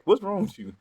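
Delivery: the inner voice demanding the guy fight back; exasperated disbelief. Retold or imitated. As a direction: throw up your hands at him. Inner voice baffled.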